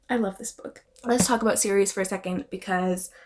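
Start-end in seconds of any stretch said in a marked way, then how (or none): 0.1-0.8 breathy soft sigh of love; whispered adoration for the book; sighed fondness. Real, not acted. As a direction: sigh it out, lovestruck.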